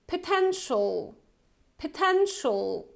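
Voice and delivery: potential as "puh-TEN-shul"; model pronunciation. Shown as a demonstration. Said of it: "pronounced as follows".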